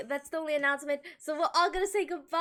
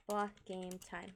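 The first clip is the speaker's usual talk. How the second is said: slow; 7 semitones lower, 11 dB quieter, slower than usual. Shown as a demonstration.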